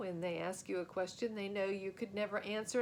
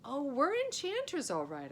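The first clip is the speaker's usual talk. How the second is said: nervous bluster; 7 semitones higher, 6 dB louder than usual. Acted. Boy bluffing to crowd.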